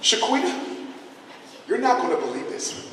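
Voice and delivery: lightly voiced gushing teacher; mild put-on teacher voice; a touch of teacher voice. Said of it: "And then she says".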